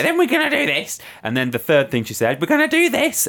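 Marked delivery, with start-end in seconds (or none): 0.0-1.0 much higher, sing-song teacher voice; high mocking impression of a bossy teacher. 2.4-3.3 much higher, sing-song teacher voice; high mocking impression of a bossy teacher.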